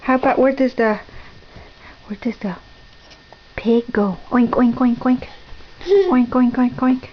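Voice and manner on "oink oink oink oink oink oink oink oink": rhythmic runs of oinks; pig oinks. Shown as a demonstration. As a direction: oink in a steady playful string. Models the pig's sound for toddler.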